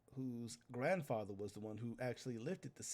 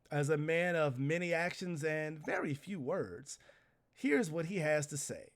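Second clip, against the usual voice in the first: hammed-up herald announcer; 7 dB louder than usual. Herald addressing the whole city, loud showman voice. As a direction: boom it out like a city crier.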